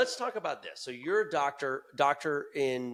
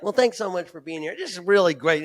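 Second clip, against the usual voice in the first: stock, stiff host opener; hammed-up dull emcee welcome; bland host voice; 4 semitones higher, 6 dB louder than usual. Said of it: "be like".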